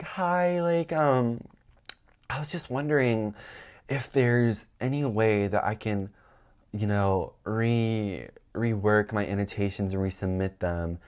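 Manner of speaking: softly polite, carefully asking; polite and sweet. Retold or imitated. Student asking the professor politely, sweet and soft. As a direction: ask the professor nicely, almost timid. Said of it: "that's not how I was coming off".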